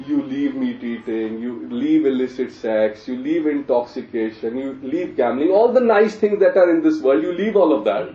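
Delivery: mock dismay, swelling as the list grows; sarcastic. Real, not acted. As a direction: pile it up with heavy sarcasm. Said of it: "I'm saying sarcastically".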